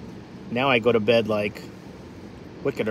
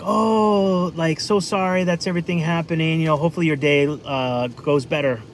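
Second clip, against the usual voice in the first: higher, syrupy fake-sorry voice; fake sympathy; 4 semitones higher than usual. City passerby to broken-down driver, hollow sympathy. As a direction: sound caring while already leaving. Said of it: "someone from a big city would be like".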